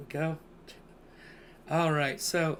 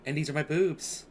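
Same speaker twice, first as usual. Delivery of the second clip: flamboyant host voice, higher and louder; campy drag queen; 5 semitones higher, 3 dB louder, slower than usual. Pretend. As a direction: diva welcoming her darlings. Podcast host persona intro.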